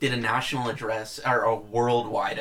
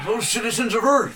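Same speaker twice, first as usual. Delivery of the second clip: president voice; 8 semitones higher, 3 dB louder than usual. Pretend. Mock presidential address.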